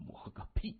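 voiceless muttering under the breath; low-volume dismissive grumble; scornful mutter. A narrator's reading. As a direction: mutter it with a sneer, almost whispered. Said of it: "用中文嘟囔着".

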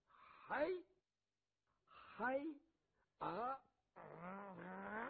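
effortful heaves pulling a heavy bow; lightly acted straining groans; straining grunts. A narrator's reading. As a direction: grunt and strain as if drawing a stiff bowstring. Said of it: "齐国远这声可倒挺大".

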